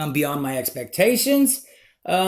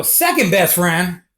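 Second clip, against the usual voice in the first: slow echo at normal pitch; drawn-out, puzzled repeat; questioning echo; slower than usual. Retold or imitated. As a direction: repeat it back slowly, querying it. Teller echoes the man's words back.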